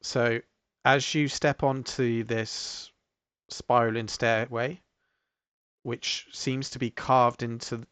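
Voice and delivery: slow, measured scene-setting with long pauses; game master narration. Acted. Game master leads players up a glowing stairway, measured narration. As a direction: unfold the scene piece by piece, unhurried.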